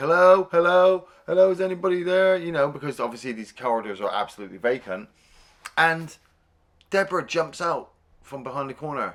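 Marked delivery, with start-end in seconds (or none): 0.0-2.4 repeated high, loud hollering. Retelling events, speaker acts out a man calling into empty corridors; retelling a shout. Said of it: "And Jason's shouting".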